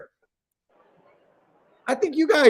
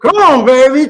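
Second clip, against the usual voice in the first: yelling at a horse race; 10 semitones higher, 8 dB louder than usual. Real, not acted. Cheering a horse during race.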